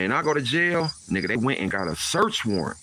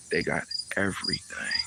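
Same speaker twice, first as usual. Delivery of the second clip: devastated; 4 semitones lower, 5 dB quieter than usual. Retold or imitated. Devastated reply.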